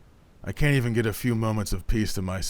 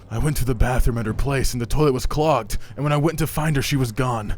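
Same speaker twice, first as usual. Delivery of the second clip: urgent report; 3 semitones higher, 5 dB louder than usual. Acted. Urgently reporting girlfriend kidnapped.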